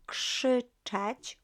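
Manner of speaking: "krzyczeć" with KRZ said like K-SH; KRZ as KSH. Shown as a demonstration. Teacher explains KRZ to learners, "krzyczeć" modelled with a KSH start. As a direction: pronounce the opening of "krzyczeć" as KSH. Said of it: "K R Z is pronounced as more like K S Z".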